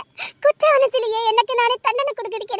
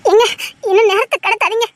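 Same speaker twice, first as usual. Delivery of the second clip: a louder, tearful urge; crying plea; 4 dB louder than usual. Acted. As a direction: beg him through tears not to delay. Pleading while crying. (அழுதபடி கெஞ்சல்)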